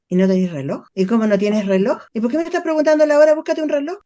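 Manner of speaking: snappy, fast scolding parent; a lightly voiced critical parent, rushing. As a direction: rattle off irritated questions like a critical parent. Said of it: "desde el padre crítico".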